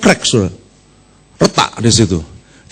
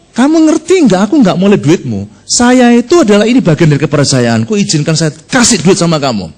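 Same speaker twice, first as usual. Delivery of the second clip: angry foreigner; 3 semitones higher than usual. Retold or imitated. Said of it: "Bulenya marah".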